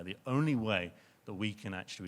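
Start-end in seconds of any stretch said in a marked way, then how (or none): 0.0-0.9 firm emphasis on "only"; stress on only. Real, not acted. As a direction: repeat it with weight on "only". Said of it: "I do stress the word only".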